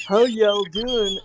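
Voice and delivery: slow, drawn-out Southern American "How y'all doing?"; American accent. Shown as a demonstration. Scottish guest greets the chat in a slow Southern American accent. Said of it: "do your American accent".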